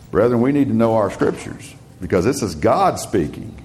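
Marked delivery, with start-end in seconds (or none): none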